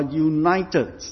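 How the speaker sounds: "united" set apart with deliberate emphasis; stress on united. Real, not acted. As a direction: lean on the word "united". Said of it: "I stress the word united".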